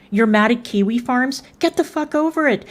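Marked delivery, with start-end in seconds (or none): 1.6-2.6 exasperated. Real, not acted. Angry rant at a rival.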